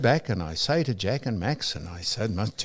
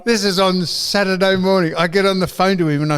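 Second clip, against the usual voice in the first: laughing; 5 semitones higher, 3 dB louder than usual. Real, not acted. Laughing retelling his own blunder.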